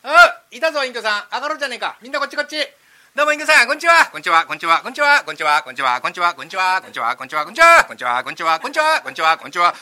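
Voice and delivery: loud overlapping hellos from many voices; loud, rowdy chorus of neighbours; crowd of callers. Acted. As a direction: pile in shouting greetings.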